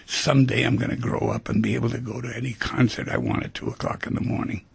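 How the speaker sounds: put-on a mildly huffy kid muttering his complaint; the kid denied the concert grumbles, half-whispered and exasperated; sulky kid. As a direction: grumble it under your breath like a thwarted twelve-year-old. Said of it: "And you".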